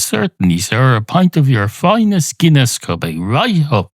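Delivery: hint of a sing-song serving voice; obliging barman. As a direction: oblige a customer, lifting the pitch lightly. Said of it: "the man behind the bar says".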